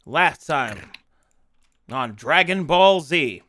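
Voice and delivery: slow, lightly hammed-up announcer; anime recap announcer. Game master opening the session recap, mock announcer.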